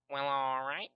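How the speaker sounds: drawn-out, rising "all right"; slow sing-song catchphrase with an upswing; Animal Crossing character. Real, not acted. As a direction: stretch it out and lift the end like a cute game character. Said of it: "you sounded like an Animal Crossing character".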